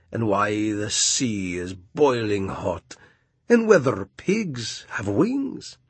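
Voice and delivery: slow, stately walrus voice; grand walrus speech. Acted.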